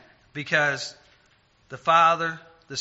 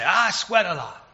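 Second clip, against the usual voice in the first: slow, louder, higher self-quote; imitating own plain phrasing; 4 semitones higher, 5 dB louder, slower than usual. Son blurting his everyday phrase to Mom, mock-emphatic. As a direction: play up your own homely wording, slowly. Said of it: "I would say".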